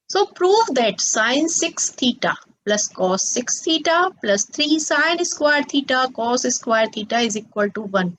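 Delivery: very slow, word-by-word question reading; slow dictation pace for the class; dictating slowly. Acted. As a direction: read the problem out slowly so students can copy it. Reads the question aloud slowly.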